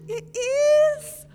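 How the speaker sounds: high, loud, rising squeal; thrilled squeal. Acted. Girl learns she guessed skeleton's name, thrilled squeal. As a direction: burst out amazed and delighted.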